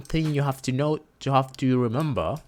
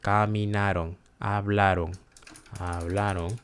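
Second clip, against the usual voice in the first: caminaron and hablaron stressed on "na" and "bla"; teacher's demo, light endings on caminaron and hablaron; unaccented O; 3 semitones lower than usual. Shown as a demonstration. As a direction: let the final "ron" of caminaron, hablaron fall away unstressed. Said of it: "not accent O will sound like".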